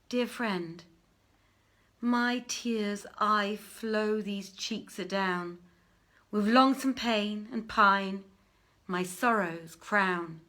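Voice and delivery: slow, lightly voiced grieving verse; slow poem of a lover's sorrow; mournful recited poem. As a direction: recite it slowly like a lament.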